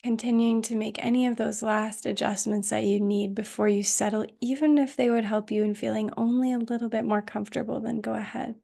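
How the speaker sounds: calm, unhurried meditation voice with long pauses; guided meditation. Acted. Teacher settling students into Yoga Nidra, calm guided meditation. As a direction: guide them gently into rest, leaving space between phrases.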